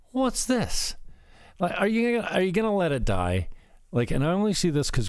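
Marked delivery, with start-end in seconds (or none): 0.1-3.5 high, sing-song mock of a nagging question; sarcastic raised-voice imitation of an accuser; mocking imagined question. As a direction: pitch it well up to mock her. Mocking imagined reaction about Laura.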